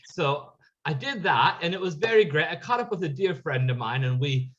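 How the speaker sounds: lilting mock British accent; put-on British accent. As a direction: slip into a playful, inconsistent British accent. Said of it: "why are you British all of a sudden".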